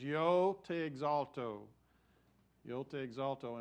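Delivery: Spanish sung with a West Texas accent. Shown as a demonstration. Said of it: "this is gonna be my West Texas accent in speaking Spanish".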